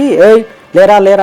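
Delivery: a loud retold shout to get up; policeman's rough shout to a sleeping man, retold; police yelling wake up. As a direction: bark it like a cop waking a suspect. Police rousing him at night.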